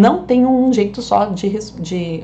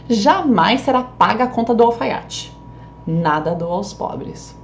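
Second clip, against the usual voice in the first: "Jamais será paga" as one denial; statement intonation. Shown as a demonstration. Teacher reading the nephew's version, "Jamais será paga" as a statement. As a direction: state "Jamais será paga", then a slow "Nada dou aos pobres". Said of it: "como que eu deixaria pro sobrinho".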